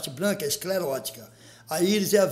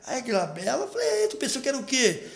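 pitched up high, mock surprised; high mock surprise; 5 semitones higher than usual. Teasing the girl about glabela, in a high surprised voice. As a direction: squeak it out in disbelief. Retold girl's surprise and reply.

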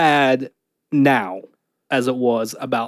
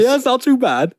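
British voice; 8 semitones higher than usual. Pretend. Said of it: "pretty good British voice".

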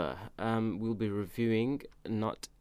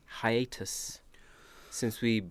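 breathy whispered aside; much slower than usual. Real, not acted. Host whispering "hiatus" mid-intro, hushed aside. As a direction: drop to a secret whisper.

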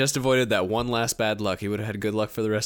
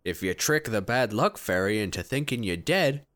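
put-on Brooklyn accent, laughing at the end; a tough-guy Brooklyn accent. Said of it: "a Brooklyn accent for a Russian".

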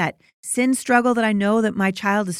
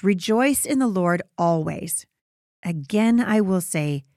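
scripture reading. Acted. Reads scripture passage aloud.

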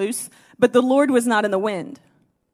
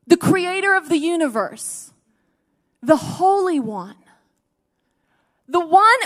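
rising awed preaching; 4 semitones higher than usual. Acted. Preacher exalting God before the congregation, rising awe. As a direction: climb higher as the praise builds.

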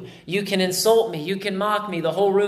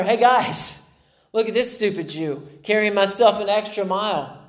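mock the Jew for the crowd; mocking soldier; 5 semitones higher than usual.

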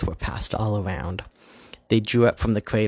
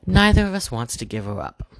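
mildly bitter; 3 semitones higher, 4 dB louder than usual. Acted. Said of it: "said bitterly".

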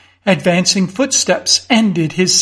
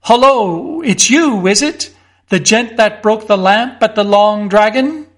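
a hint of a gruff country constable, raised; suspicious constable; 2 semitones higher than usual. Constable Winch confronting Mister Fotheringay, mildly suspicious.

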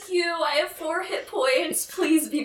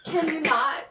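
lightly voiced polite adventurer; character voice; 2 semitones higher than usual. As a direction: ask it in character, a bit timid. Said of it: "say that in your character voice".

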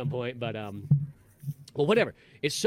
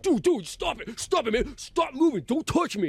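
high-pitched imitated panicky complaint; mock a hippie losing it, pitched way up; freaked-out hippie; 9 semitones higher than usual. Hippie telling the dancer off, freaking out. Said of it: "once again, that hippie guy's just".

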